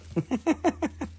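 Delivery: high, soft put-on sobbing; mock crying. Seller whose joke got no laughs, mock crying. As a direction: fake a little high-pitched cry. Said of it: "so I'm gonna cry over here".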